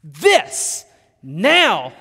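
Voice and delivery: retold overwhelmed outburst; awestruck exclamation. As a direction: build to a loud, drawn-out final word. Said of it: "And I looked at her, I said".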